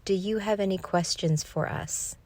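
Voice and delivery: imitating a child's eerily serious monotone; understated monotone, as if speaking for others; serious, even monotone. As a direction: keep it even and grave, no lift. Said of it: "in a very serious, even voice".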